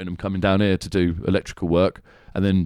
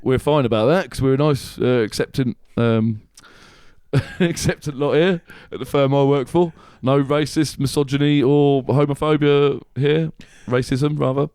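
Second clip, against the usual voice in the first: mock boss speech; 3 semitones higher than usual. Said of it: "It's like".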